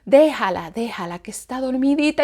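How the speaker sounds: a hint of a hushing father; hushing husband.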